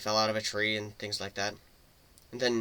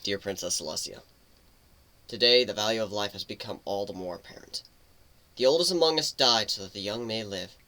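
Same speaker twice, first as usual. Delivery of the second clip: letter reading. Acted. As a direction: read the letter gently to the princess. Letter read aloud.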